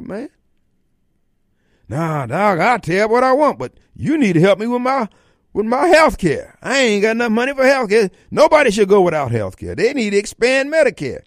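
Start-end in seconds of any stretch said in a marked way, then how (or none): 1.9-11.2 mock liberal voter. Host mocking a Democrat voter who wants health care, lightly voiced. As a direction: play a brash guy who wants free health care, slightly higher.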